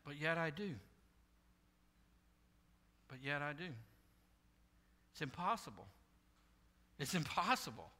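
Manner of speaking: low, soft repeated confession; hushed admission. Real, not acted. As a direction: drop right down and let it land. Hushed drop after the climax.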